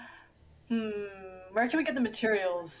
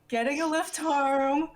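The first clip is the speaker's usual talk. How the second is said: put-on Valley Girl voice; 3 semitones higher than usual. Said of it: "her Valley Girl voice".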